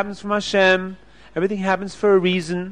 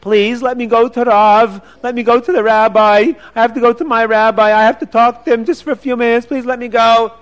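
begging; 4 semitones higher, 5 dB louder than usual. Acted. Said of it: "he starts begging the officer".

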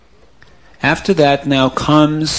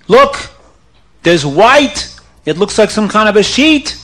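surprised discovery; 6 semitones higher, 4 dB louder than usual. Acted. Diggers spot something in hole.

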